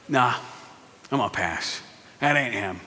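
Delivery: deep, quiet, unbothered voice of the Lord; God's voice. Acted. Preacher voicing God to Samuel, low and calm. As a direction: drop low and soft as God passing on him.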